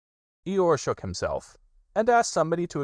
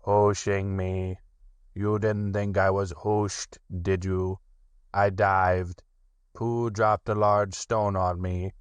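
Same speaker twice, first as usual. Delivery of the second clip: slow, mournful donkey voice; slow, glum old donkey; gloomy Eeyore. Acted. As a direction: sulk it out as Eeyore. Eeyore protests in story.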